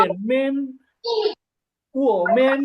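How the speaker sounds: "থামেন" with a light, toneless last syllable; careful Chinese "থামেন", unstressed ending; neutral-tone demonstration. Shown as a demonstration. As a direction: model "রেনমেন" carefully, first syllable carrying the tone. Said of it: "কিভাবে উচ্চারণ করতে হবে".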